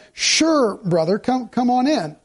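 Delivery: a bright, eager "Sure" that invites him in; a wholehearted "Sure, brother, come on in."; welcoming sure. Shown as a demonstration. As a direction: say "Sure" gladly and openly. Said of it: "Did you notice the difference between the sures".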